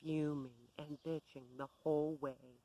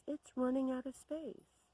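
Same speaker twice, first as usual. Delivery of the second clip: imitated scream; 8 semitones higher than usual. Bev complaining about her computer, higher mock scream. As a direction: pitch it way up like a ranting complaint. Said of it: "she screams".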